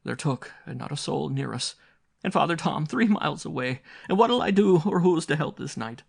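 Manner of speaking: high, wailing, frightened Irish mother; despairing mother. A narrator's reading. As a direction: lament the lost children.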